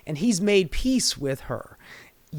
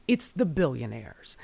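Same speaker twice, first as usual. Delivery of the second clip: hushed reveal; 6 semitones lower, 6 dB quieter than usual. Real, not acted. Vlogger whispering who the real problem is, hushed. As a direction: drop to a near whisper for the punchline.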